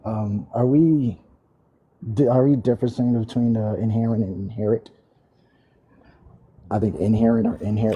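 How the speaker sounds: muffled audio, as through a wall. Real, not acted. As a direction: sound muffled and distant. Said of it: "You sound muffled".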